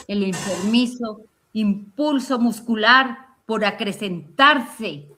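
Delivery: slow, grave recital with long pauses; poetry recitation. Acted. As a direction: declaim it like a solemn poet. Recites poem. (recitación poética solemne)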